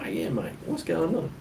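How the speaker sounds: high, played-up Australian reply; real Australian. Traveller answering a curious local, real Australian. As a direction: answer as the hammed-up Aussie. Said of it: "go real Australian".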